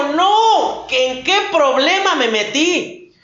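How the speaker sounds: dismayed Judas. Retold or imitated. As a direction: Judas realising he is trapped, alarmed. Judas waking in condemnation.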